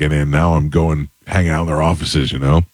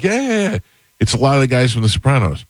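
high excited mock friend voice; retold eager friend; 6 semitones higher than usual. Friend on the phone urging him to come, high and eager. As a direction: toss it off high and eager like an old pal. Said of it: "He's like".

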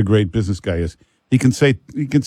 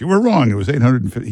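pointed correction; 2 semitones higher, faster than usual. Retold or imitated. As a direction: correct them with a triumphant gotcha. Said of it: "he sees you and goes".

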